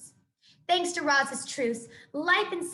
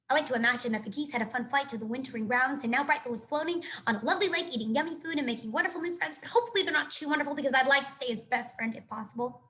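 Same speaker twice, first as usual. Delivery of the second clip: chatty squirrel voice; faster than usual. Acted. Chit Chat's chatter.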